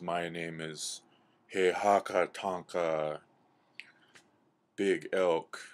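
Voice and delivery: slow, weighty announcement; measured giant introducing himself; giant elk. Acted. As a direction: state the name slowly, with great importance. Giant elk announces his name.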